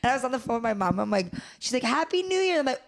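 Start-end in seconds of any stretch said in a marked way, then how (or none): 1.8-2.6 higher-pitched imitation of mom's holiday greeting; put-on high New Year greeting; retold cheery greeting. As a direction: act out an excited phone greeting. Retold phone call with mom.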